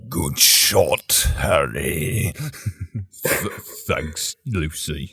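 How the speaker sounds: low, put-on comic character voice; mock devil exchange. Host plays Satan praising the hunter and his shy thanks, low mock voice. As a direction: drop deep for a hammed-up devil and his admirer.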